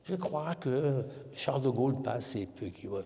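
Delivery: Quebec skier mocks the France French accent he picked up. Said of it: "j'ai développé un accent français".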